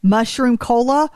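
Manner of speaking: can't believe what she's hearing; shocked disbelief. Real, not acted. Friend took her drink.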